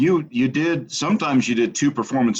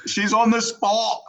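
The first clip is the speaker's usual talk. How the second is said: teasing; 12 semitones higher, slower than usual. Real, not acted. Teasing niece on the spot.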